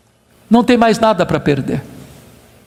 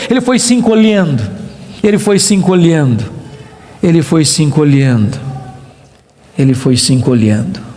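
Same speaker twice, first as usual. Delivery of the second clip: sinking lower with every repeat; shrinking away; 9 semitones lower than usual. Shown as a demonstration. Preacher showing Job shrinking before God, voice dwindling. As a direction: let the voice shrink down to a low murmur.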